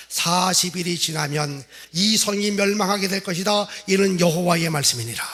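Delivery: measured, emphatic prophetic declaration; solemn proclamation. Acted. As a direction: proclaim it as the word of the Lord. Assembled message recited as God's proclamation.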